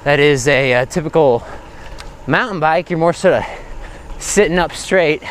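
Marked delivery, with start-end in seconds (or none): none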